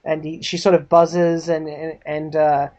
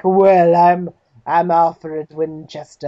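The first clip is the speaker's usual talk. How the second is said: lightly voiced slow, stuffy butler; slow, self-important introduction; 3 dB louder, much slower than usual. Butler introduces himself to a reporter, stuffy. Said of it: "stuffy, uh, mustached butler".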